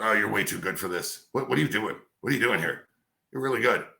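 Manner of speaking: lightly voiced veteran radio man, barely off his own voice; a half-hearted take on an older broadcaster's praise; bad Bob Mason imitation. Host retells the morning legend praising him, lightly imitated. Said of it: "And that's my bad Bob Mason imitation".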